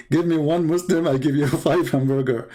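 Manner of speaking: chuckling while repeating the joke; quoting himself with a laugh; laughing through own quote. Retold or imitated. A man laughing as he repeats his recorded joke to the chat room. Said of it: "So he played that".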